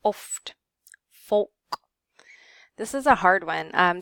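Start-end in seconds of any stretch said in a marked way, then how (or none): 0.0-1.5 "oft" and "folk" with a short rounded O. Shown as a demonstration. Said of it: "short O".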